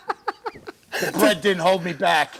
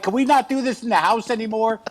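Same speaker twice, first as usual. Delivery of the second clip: higher, nagging wife voice; lightly voiced annoyed wife; exasperated wife; 4 semitones higher than usual. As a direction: plead with Jimmy, pitched up. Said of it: "your wife was like".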